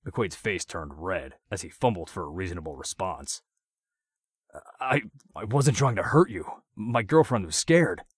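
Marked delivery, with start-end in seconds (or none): 4.8-8.0 stammering, higher and louder plea; pleading, scared. A narrator's reading. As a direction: beg nervously, voice up. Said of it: "in a sympathetic tone".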